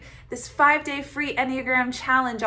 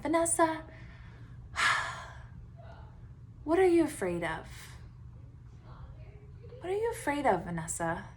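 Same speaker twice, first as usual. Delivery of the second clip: put-on soft, sighing questions to a scared child; gentle self-questioning; 4 semitones higher, 5 dB quieter than usual. Coaching herself like a scared little child, gently and softly. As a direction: ask it softly, like comforting a frightened kid. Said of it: "as if I was a scared little child".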